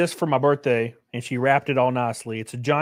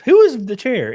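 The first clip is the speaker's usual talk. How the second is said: retold question; 9 semitones higher, 9 dB louder than usual. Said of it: "asking who it was".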